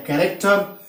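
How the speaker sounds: कैरेक्टर begun with a K sound. Shown as a demonstration. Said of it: "फिर क हो गया".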